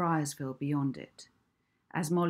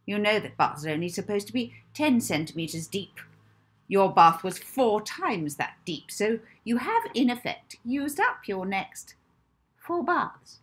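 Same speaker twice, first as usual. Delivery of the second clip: stern matron lecture; 2 semitones higher, 5 dB louder than usual. Acted.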